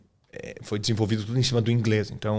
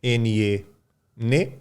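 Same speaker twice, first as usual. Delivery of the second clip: syllable by syllable; much slower than usual. Shown as a demonstration. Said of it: "É assim que a gente lê em português".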